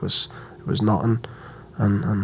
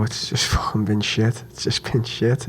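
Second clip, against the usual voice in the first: laughing through hurt; 3 dB quieter than usual. Real, not acted. Beaten fighter telling reporters about the loss, rueful laugh. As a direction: laugh so you don't cry. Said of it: "I'm laughing 'cause I don't wanna cry".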